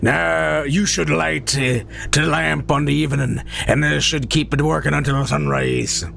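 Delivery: lightly voiced gruff sea captain; a hint of a crab restaurant boss; Mister Krabs voice. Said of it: "It's kind of Mister Krabs".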